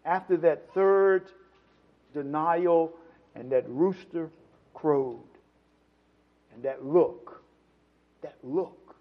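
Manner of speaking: low, slow phrases with pauses; grave, measured pulpit storytelling; solemn preaching. Real, not acted. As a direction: let each phrase settle on the congregation.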